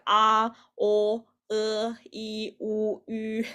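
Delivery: each vowel held out separately; teacher modelling pure, separated vowel sounds; vowel demo. Shown as a demonstration. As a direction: sound out the pinyin vowels one by one. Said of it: "these different vowels".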